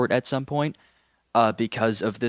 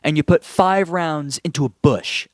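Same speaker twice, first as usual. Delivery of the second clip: exasperated scolding; 4 semitones higher than usual. Real, not acted. Scolding the character.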